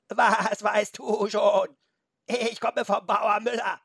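high, loud, slow goat bleat. A narrator's reading. Goat insists to Felix on its farmer, bleating. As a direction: bleat back with stretched, wobbling vowels. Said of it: "dann meckerte sie".

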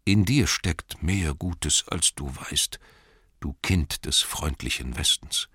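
measured, mildly solemn praise; lightly voiced dying Thorin. Dying Thorin praising the child of the West, mildly solemn. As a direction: give kind last words with understated weight.

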